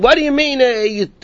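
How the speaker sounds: retold yelling. Cheated traveler yelling at the rabbi over his money, high mock outrage. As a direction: cry out as if robbed, pitch well up. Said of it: "started yelling and screaming".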